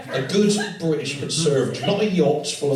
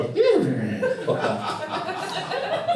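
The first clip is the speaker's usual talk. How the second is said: mock pleasured moan; much slower than usual. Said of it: "make Hattie Jake's top women go".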